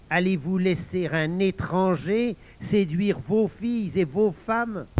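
drawn-out, outraged question; rabble-rousing challenge; indignant incitement. Acted. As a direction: goad the listeners with mounting outrage. Villain incites the men.

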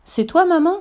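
high, piping little-goat voices; eager high child voice; kids calling out. A narrator's reading. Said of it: "crient les biquets".

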